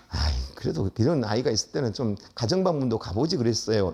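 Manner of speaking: mild polite reproach; said nicely. Retold or imitated. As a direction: put it kindly to the principal. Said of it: "이랬어요, 좋게".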